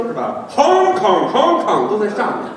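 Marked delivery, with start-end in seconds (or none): 0.6-1.9 香 and Hong Kong placed slightly high, drawn out; upper-register, slow Hong Kong; breath from up top. Shown as a demonstration. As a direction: send the air from above on Hong Kong. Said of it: "用气都在上面".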